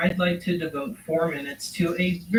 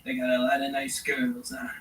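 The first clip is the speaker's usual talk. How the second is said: whisper; 6 semitones lower, 5 dB quieter than usual. Acted. Sleazy aside about the dealer.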